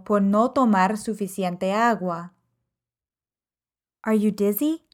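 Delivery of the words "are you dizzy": usual speaking voice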